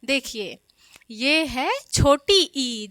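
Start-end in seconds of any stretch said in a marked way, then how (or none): 1.1-2.9 slow, careful teaching pace; patient classroom explanation; slow demo. Shown as a demonstration. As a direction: point it out slowly to children. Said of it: "जिसको ई बोलते हैं".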